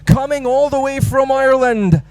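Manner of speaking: high, loud stage introduction shout; big ring-announcer style build-up; hype MC announcement. Real, not acted. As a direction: call the act on with rising excitement, stretching the name.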